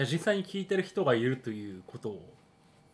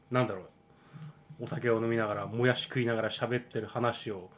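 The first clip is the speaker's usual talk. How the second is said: mouth full. Real, not acted.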